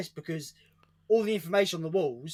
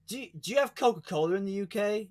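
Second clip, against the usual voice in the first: laughing through the question; 3 semitones higher than usual. Retold or imitated. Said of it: "I can't believe he asked".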